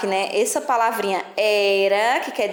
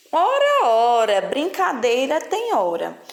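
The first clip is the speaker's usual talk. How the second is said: playful title reading; 3 semitones higher, slower than usual. Shown as a demonstration. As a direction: read the title like a playful scolding. Teacher reads book title expressively. (título lido em tom brincalhão, começo agudo)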